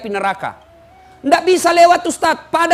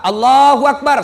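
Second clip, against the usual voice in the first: prayer call demo; 6 dB louder than usual. Shown as a demonstration. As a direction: call the takbir as an imam would. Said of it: "kursus kilat sholat jenazah".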